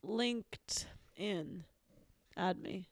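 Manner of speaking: breathy whisper, slow and soft. Acted. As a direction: whisper the plug slowly. Whispered plug.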